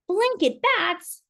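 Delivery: slow, high, wondering; drawn out in amazement; amazed question. Acted. Lola marvels at her cousin's bat story, slowly amazed.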